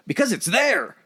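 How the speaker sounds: high, loud redneck drawl. Shown as a demonstration. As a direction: belt it out like a Southern hick. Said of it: "Put it in a redneck voice".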